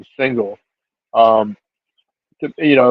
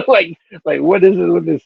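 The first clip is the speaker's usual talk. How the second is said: usual speaking voice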